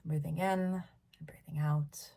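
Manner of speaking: calm meditation lead-in with pauses; guided meditation. Real, not acted. Leader returning listeners to their breath, calm meditation voice.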